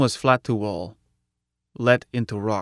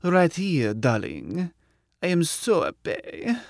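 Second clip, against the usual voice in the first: higher, lightly feminine computer voice; soprano voice; 6 semitones higher, slower than usual. A narrator's reading. Mike answers as Michelle in a higher soprano. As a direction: Mike puts on a sweet soprano. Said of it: "answer in soprano voice".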